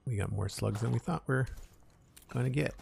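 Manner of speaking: talking while crunching chips. Real, not acted. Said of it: "I'm so sorry for the crunching".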